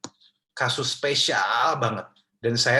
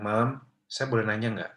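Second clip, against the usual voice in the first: polite question. Shown as a demonstration. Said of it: "Jadi kayak".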